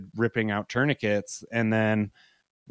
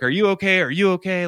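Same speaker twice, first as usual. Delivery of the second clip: worried asking; 8 semitones higher, 4 dB louder, faster than usual. Retold or imitated. Panicked people asking him.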